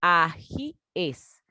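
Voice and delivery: ajíes drawn out syllable by syllable, a-jí-es; "ajíes" with stressed jí, then a clear "es"; plural ajíes demonstrated. Shown as a demonstration. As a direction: say "ajíes" slowly with a separate final "es". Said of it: "yo digo".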